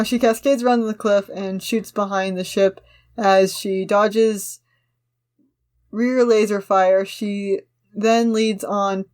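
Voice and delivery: measured, slightly slow action-line reading; script narration read-aloud. Acted. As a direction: read the scene description steadily to the friend. Reads script action lines.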